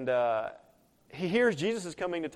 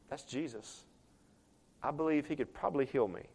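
passive musing; 2 semitones lower, 8 dB quieter than usual. Pretend. Preacher mocking a man who just sits there, passive quiet musing. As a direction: mutter it softly, as if nothing is urgent. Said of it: "He didn't just sit there and go".

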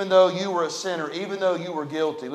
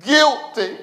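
broken voice; 7 semitones higher, 6 dB louder than usual. Retold or imitated. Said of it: "I heard Vinny in that broken voice".

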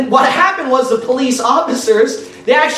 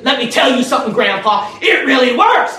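mad shout; 6 semitones higher, faster than usual. Retold or imitated. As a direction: bark it out like a furious street preacher. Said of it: "he got mad".

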